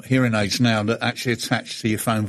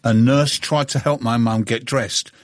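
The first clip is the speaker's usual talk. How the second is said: reading aloud. Acted. Reads out a listener's tweet.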